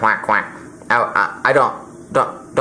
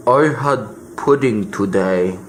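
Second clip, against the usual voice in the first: John Ashcroft voice; 2 semitones lower than usual. Pretend. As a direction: say it like a dim child. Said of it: "John Ashcroft".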